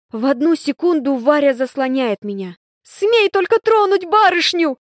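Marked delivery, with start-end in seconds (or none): 2.8-4.8 high, louder warning; threatening shout. A narrator's reading. Varya threatens the boy to protect her mistress, fierce. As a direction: stand guard and threaten him. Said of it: "угрожающе кричит она".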